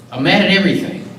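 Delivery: heated, emphatic frustration spilling out; repeated mad, building with feeling; real anger. Real, not acted. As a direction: let the anger at the unfairness push through each line. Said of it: "I'm crying and mad".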